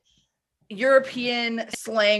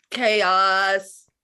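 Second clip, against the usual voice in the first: drawn-out mock cry; 5 dB louder than usual. Hyping the chaotic episode.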